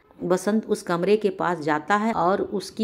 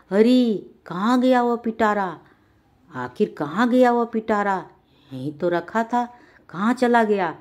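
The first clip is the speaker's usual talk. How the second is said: alarmed search; 4 semitones higher, 4 dB louder than usual. Acted. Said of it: "रंगीला बोला".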